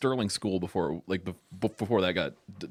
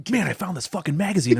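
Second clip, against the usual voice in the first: higher, louder laughing retelling; laughing quote; 8 semitones higher, 6 dB louder, faster than usual. Retold or imitated. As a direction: giggle through the friend's line. Imitating giggling friend on phone.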